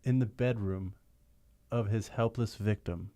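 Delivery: slow ominous narrator voice; dramatic narration. Acted. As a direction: read it like an old radio narrator. Reads narration box.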